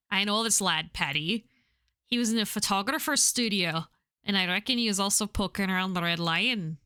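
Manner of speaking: lightly attempted Irish accent. Visitor asking pub regulars about Paddy, attempted Irish accent. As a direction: have a tentative go at Irish. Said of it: "I have to try and do Irish".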